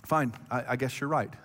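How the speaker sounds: low, quiet mock surrender with a sigh; resigned giving in. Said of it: "throw in her Enneagram nine towel".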